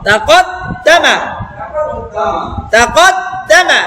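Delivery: তাকত দামা read slowly, syllable by syllable; slow careful reading. Shown as a demonstration. Teacher reading slowly for students to repeat. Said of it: "আবার কি হবে".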